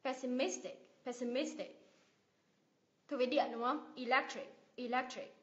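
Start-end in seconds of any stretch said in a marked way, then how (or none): 0.0-1.8 "pessimistic" with MIS stressed; stress before last syllable. Shown as a demonstration. Teacher drilling IC words, stress on MIS in "pessimistic". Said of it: "nhấn vào âm tiết ngay trước đó". 4.0-5.3 "Electric" with LEC stressed; stress before last syllable. Shown as a demonstration. Teacher drilling IC words, stress on LEC in "Electric". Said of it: "nhấn vào âm tiết ngay trước đó".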